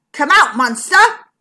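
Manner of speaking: loud, firm command; stern. A narrator's reading. Zigbee orders the monster out of the bank, sternly. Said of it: "he said sternly".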